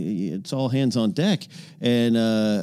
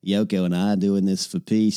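Impression of a singer; 5 semitones lower than usual. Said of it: "You sound a wee bit like John Lennon".

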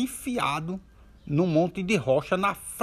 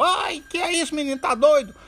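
much higher, loud pained cry; yelp of pain; 13 semitones higher, 4 dB louder than usual. Acted. Man struck on the shin by a boy, high pained yelp. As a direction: yelp as the blow lands. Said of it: "o homem deu um grito e disse".

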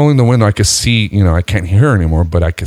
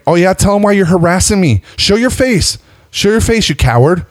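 very high-pitched accuser imitation; mock taunting; 12 semitones higher than usual. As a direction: goad him in a put-on high voice. Retold woman taunting him.

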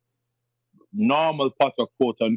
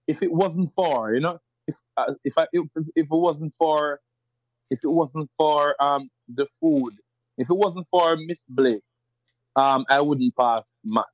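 standard Jamaican English. Shown as a demonstration. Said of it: "if I say".

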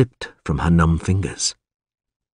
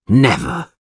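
slow, low banishment; cold final warning; 4 semitones lower, slower than usual. Acted. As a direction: shut the door on him for good. Alderman banishes Geralt.

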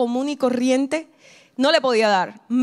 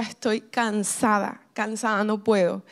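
slow, softer, worn-out retelling of her plea; exhausted lament; 3 semitones lower, 4 dB quieter, slower than usual. Retold or imitated. Mother praying to God at night, slow and exhausted. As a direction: let each word sag, drained and spent. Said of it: "Estaba cansada, estaba agotada".

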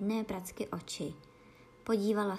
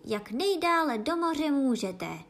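high, loud and eager; excited shout; 6 semitones higher, 5 dB louder than usual. Acted. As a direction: call it out as he leaps. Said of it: "zavýskl Gryfon".

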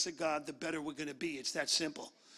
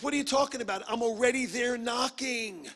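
God's exasperated reply; 3 semitones higher, 3 dB louder than usual. Acted. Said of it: "He goes".

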